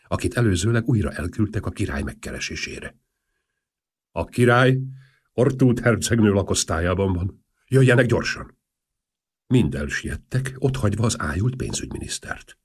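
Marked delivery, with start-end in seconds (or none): 4.1-8.6 loud urgent summons, higher pitch; urgent call. Acted. State secretary summons the ministers, loud urgent call. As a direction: hurry them along loudly.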